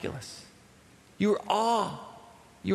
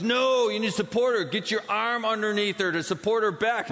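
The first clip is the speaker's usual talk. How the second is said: stern doctor correction; 4 semitones higher than usual. Retold or imitated. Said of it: "He goes".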